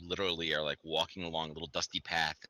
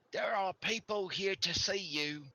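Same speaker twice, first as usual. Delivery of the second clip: higher, louder cheerful guide; NPC guide voice; 5 dB louder, slower than usual. Acted. The villager guide presents the camp to the party, in a bright raised voice. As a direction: proudly show off the camp.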